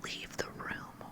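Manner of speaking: slow, soft, icy whispered command; cold order. Acted. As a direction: lay down the order slowly. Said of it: "ordered Miss Minchin".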